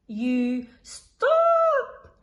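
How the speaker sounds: high, loud warning; urgent cry. A narrator's reading. Instructor calling out to Freddy, loud and high. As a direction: yell to stop him at the edge. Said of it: "cried the flying instructor".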